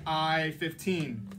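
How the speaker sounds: slow, drawn-out bingo number call; bingo caller. Shown as a demonstration. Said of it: "working on my bingo calling".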